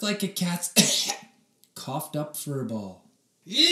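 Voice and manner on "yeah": sudden high yelled scream; kid's shocked scream. A narrator's reading. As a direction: let out a big yell. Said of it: "Oliver's scream shook".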